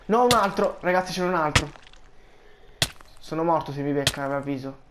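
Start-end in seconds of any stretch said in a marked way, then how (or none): 0.1-1.7 1 allarme. Real, not acted. Arriva un altro mago.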